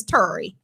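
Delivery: Terry said "TUR-ee"; Terry rhyming with furry; Baltimore pronunciation. Retold or imitated. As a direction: say Terry with an "ur" vowel. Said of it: "she told me her name is".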